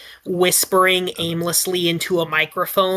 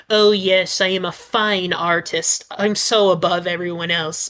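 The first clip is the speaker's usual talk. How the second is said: snobby. Pretend. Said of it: "like, a snobby way".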